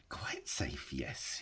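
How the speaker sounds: soft whisper; whispered to himself. A narrator's reading. Gollum reassuring himself, whispered. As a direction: hush it to himself. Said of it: "he whispered to himself".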